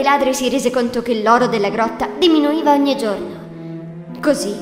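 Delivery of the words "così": ordinary delivery, nothing marked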